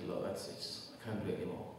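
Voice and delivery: softly voiced giving up; mild, quiet resignation; relaxed surrender. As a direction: let go in a soft, low-key prayer. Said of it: "relax and say".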